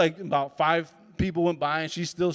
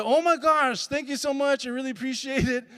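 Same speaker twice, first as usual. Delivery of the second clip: higher, gushing gratitude; gushing thanks; 7 semitones higher than usual. Retold or imitated. Thanking the old lady after the show, high and gushing. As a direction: thank her brightly, pitched up.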